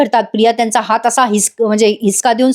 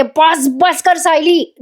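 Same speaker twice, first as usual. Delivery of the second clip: higher-pitched, drawn-out mock cry; mock yell; 5 semitones higher, much slower than usual. Priya begs her attacker to stop, imitated drawn-out yell. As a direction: imitate a yelled plea without much volume. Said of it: "Priya आता ओरडून म्हणते".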